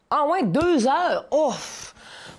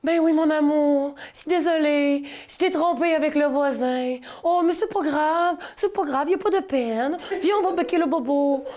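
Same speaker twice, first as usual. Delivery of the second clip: put-on cutesy baby talk; 3 semitones higher than usual. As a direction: soothe like talking to a toddler. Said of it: "des moments inappropriés pour parler en bébé".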